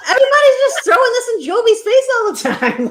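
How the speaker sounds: high, loud, through real laughter; laughing exclamation. Real, not acted. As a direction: cry it out while cracking up. Laughs about the jabs at Jovi.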